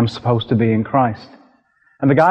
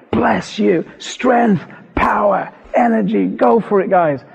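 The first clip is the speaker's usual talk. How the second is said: high-pitched mock shout, no real volume; retold shouting; 7 semitones higher than usual. Dreamer shouting away at heavenly sculptors, high mock shouting. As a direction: cheer them on in a high, excited call. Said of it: "I'm shouting away".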